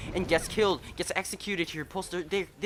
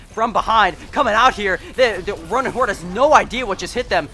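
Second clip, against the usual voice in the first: louder and higher, building hype; excited call; 4 semitones higher, 7 dB louder than usual. Real, not acted. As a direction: ramp up as the flank hits. Surprise flank play call.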